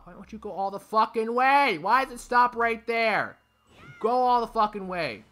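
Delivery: high, loud, exasperated rant; angry yelling. Real, not acted. Gamer furious it stops short, angry yelling. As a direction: demand it loudly, at the end of your patience.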